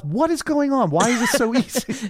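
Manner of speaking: high, suspicious alarm; queen alarmed to her lover; alarmed disbelief. Retold or imitated. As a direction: sound rattled and suspicious. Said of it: "she says to Pallas".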